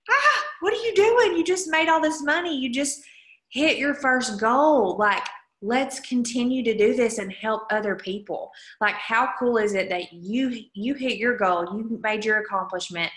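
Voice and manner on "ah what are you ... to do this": exasperated coach. Retold or imitated. Scolding recruits who quit after MVP, in a high exasperated squeal. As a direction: squeal at them in disbelief. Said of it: "And I'm like".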